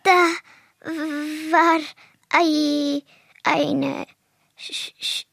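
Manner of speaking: terrified stutter breaking into a cry; stammering fear. Acted. Snake-phobic turtle telling friends, fearful stammer. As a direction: choke on the word in panic. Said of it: "Du und deine Schlangenangst".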